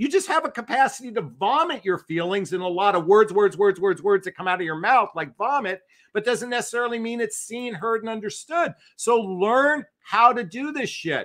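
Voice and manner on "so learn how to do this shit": loud yelling, much slower. Lecturing listeners who don't like being yelled at, yelling. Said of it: "I know you don't like me yelling at you".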